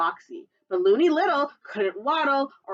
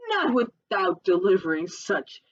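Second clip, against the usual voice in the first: sly fox; 5 dB louder, slower than usual. Acted. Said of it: "said Foxy Loxy".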